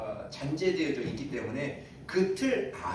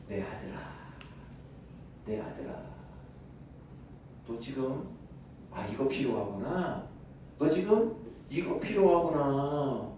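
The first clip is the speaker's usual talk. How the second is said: God addressing His son. Acted. God looking at the pastor as His son, tender fatherly voice. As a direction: speak gently, leaving space after each call. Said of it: "하나님이 나를, 조진호 목사님을 보셨을 때".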